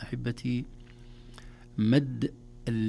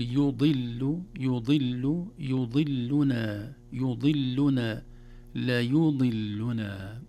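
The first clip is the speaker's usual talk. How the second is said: slow, drawn-out recited syllables; step-by-step drill; much slower than usual. Shown as a demonstration. Teacher drilling beginners on a hard word, slow build-up. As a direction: build the word up slowly, piece by piece. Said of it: "يقسم، يجردها من اللام".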